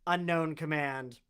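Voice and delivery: slow automated robot response; robot reply. Acted. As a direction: answer slowly like a machine. Robot answering a player's question.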